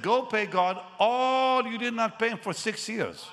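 father-in-law demanding back giving; stern command. Retold or imitated. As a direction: push him to pay up. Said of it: "He said".

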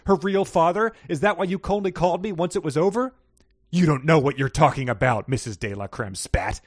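fast, heated soap-opera read; dramatic story reading. Acted. Reading the husband's accusations to the co-host, heated soap drama. Reads dramatic fanfic scene aloud.

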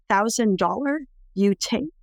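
slow, lightly voiced broken-English question again; mild imitation of the mother, slow and rising; repeated broken English offer. Mother repeats her offer to the daughter, slow imitation.

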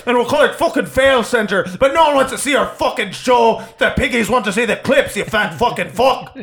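mocking the boss, laughing; furious boss tirade; ranting boss. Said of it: "You say".

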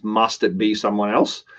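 "must" given emphasis, ending on a questioning rise; stress on MUST. Shown as a demonstration. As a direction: lightly lean on "must", lift at "else". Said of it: "emphasis on it is".

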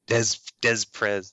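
Des Prez said as "dez prez"; spelling pronunciation. Shown as a demonstration. Co-host reads name as spelled, Des Prez as "dez prez". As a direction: sound out both z's in Des Prez. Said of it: "That's how it's spelled".

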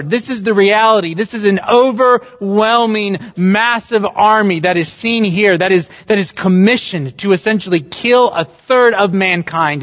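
preacher thundering rhetorical questions at the congregation; fiery preaching. Acted. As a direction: preach it from the pulpit at full force. Preaching at full force.

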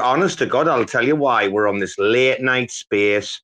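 usual speaking voice

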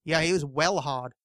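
mock tough-guy English accent, lightly done; tough British accent. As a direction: attempt a tough English accent, slowly, dropping the R in "hard". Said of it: "this tough accent that people slip into".

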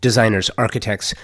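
measured, scripted sponsor-style read; steady self-promotional announcement; podcast promo read. Acted. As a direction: read out your company promo with clear, even phrasing. Reads promo for own production company.

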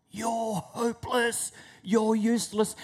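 high, drawn-out taunting inner voice; accusing inner thought. Acted. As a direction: voice the nagging thought high and slow. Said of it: "all of a sudden there's this thought".

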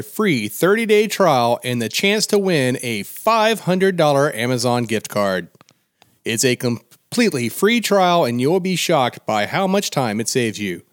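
big booming announcer read. Acted. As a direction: announce it like a fight intro. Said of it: "I was hoping to do the announcer voice".

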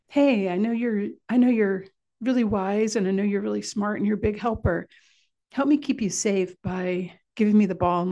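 bright praise for a big helper; encouraging praise. Shown as a demonstration. Parent praising a child to win cooperation, encouraging. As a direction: coax the child into helping. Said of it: "address the wise, cooperative part of them".

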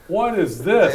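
reliving the shock of the price; incredulous outburst. Retold or imitated. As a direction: bark it out in disbelief. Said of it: "And I'm like".

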